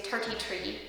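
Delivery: "thirty-three" with Irish T sounds for TH; light Irish accent on "thirty-three". Shown as a demonstration. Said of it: "you kind of say them a little differently".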